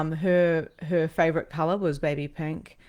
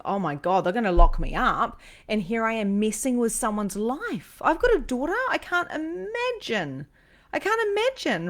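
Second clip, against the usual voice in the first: anxious retelling, climbing into a high strained voice; nervous wreck; 5 semitones higher than usual. Retold or imitated. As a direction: act out rising panic, pitch soaring by the end. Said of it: "I'm like this nervous human wreck going".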